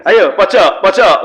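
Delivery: panggilan agak lantang; memanggil jamaah. Retold or imitated. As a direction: tunjuk jamaah di pojok. Khotib menunjuk jamaah mengantuk. (khotib memanggil jamaah di pojok, agak lantang)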